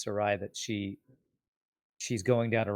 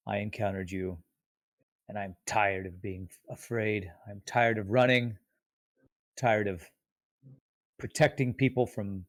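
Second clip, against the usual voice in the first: lightly voiced weary hero, restrained; Rev. Tired hero challenges nemesis to single combat, restrained and earnest. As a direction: make a measured, earnest demand, pausing often.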